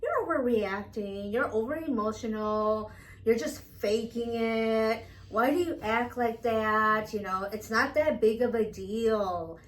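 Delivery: loud, drawn-out dismissive put-down; emphatic mock gaslighting. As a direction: imitate someone brushing off another's feelings. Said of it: "comments that you get that are very dismissive".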